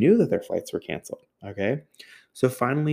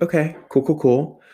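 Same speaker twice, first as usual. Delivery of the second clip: mock cheerful; 7 semitones higher than usual. Sarcastic reaction to cancellation.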